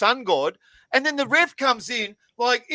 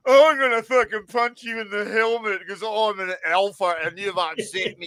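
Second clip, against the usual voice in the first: mock alpha male. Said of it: "how fucking alpha male do you have to be to go".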